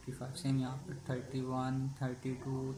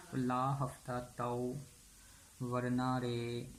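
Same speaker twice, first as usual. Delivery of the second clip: mock thug threat. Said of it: "धमकी दे रहा है वरना रे".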